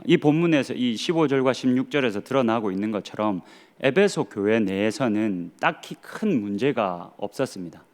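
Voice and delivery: ordinary talk, nothing marked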